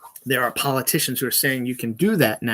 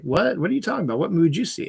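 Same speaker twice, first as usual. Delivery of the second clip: puzzled disbelief; 5 semitones higher, faster than usual. Retold or imitated. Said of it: "It's like".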